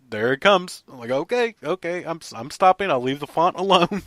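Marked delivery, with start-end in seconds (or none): 1.1-4.0 higher, louder mock surrender; laughing promise to stop fiddling; giving in. Backing off from spray.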